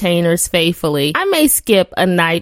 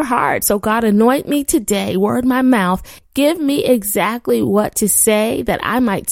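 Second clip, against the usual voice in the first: praying. Acted. Opening prayer before the word.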